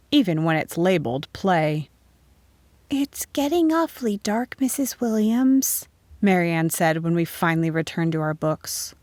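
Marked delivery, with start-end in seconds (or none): 2.9-5.9 high-pitched pupil's remark; high schoolgirl voice, rising at the end; schoolgirl to teacher. A narrator's reading. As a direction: tell the teacher in a high child's voice. Pupil speaks to teacher in story.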